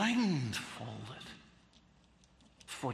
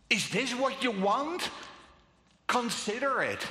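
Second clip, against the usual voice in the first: higher, louder, scornful questions; derisive Pilate; 6 semitones higher, 4 dB louder than usual. Retold or imitated. Pilate taunting the crowd, higher and louder with derision. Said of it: "hear the derision in his words".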